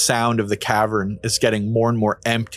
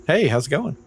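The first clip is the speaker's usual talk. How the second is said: goofy chipper greeting; 4 semitones higher than usual. Acted. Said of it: "Rinveri's like".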